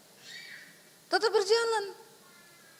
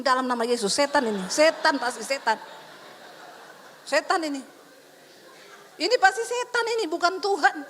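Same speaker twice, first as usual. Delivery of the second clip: rebuking a demon; 2 semitones lower than usual. Retold or imitated. Preacher recalling rebuking the voice as Satan, forceful rebuke. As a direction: cast the devil out in earnest. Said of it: "Langsung saya tengking".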